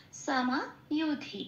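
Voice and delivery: সামা ইউথি said slowly with a long সা; Sanskrit pronunciation. Shown as a demonstration. Teacher demonstrating Sanskrit pronunciation slowly. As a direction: spell out সামা ইউথি syllable by syllable. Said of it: "ওরা বলে সা".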